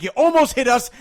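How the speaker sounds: high, loud indignant protest; reenacted road rage outburst; retold angry accusation. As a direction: hurl the accusation at a driver. Retold argument with a driver.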